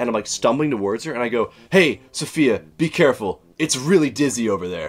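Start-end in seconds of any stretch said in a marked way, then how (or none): 1.7-4.9 tipsy, drunken, put-on British accent. Retelling a drunken line said to a friend across the road: imitating own drunk british accent. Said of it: "when I'm drunk, I talk in a British accent".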